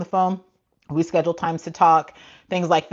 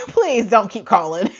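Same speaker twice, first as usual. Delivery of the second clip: laughing plea; 4 semitones higher, 4 dB louder, slower than usual. Real, not acted. Laughs while begging.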